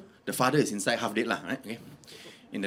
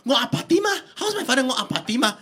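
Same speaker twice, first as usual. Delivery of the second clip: pitched-up, insistent questioning; mock-worried family pressing for news; hammed-up anxious pleading; 6 semitones higher, faster than usual. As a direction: plead urgently for an answer. Family begging doctor for news.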